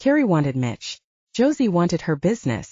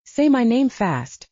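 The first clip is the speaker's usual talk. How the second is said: blurted; 5 semitones higher, slower than usual. Acted. Sister blurting out her demand, emphatic blurt. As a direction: blurt it out, slowly stressed. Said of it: "Carrie blurted".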